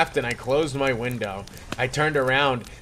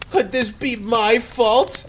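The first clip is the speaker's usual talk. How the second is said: polite question; 9 semitones higher, 4 dB louder, slower than usual. Acted. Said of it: "I asked myself politely".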